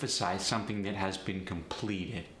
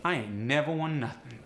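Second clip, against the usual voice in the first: AAVE, ain't never stressed; AAVE double negative; 3 semitones higher than usual. Shown as a demonstration. Teacher demoing AAVE negative. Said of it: "just throw an ain't onto it".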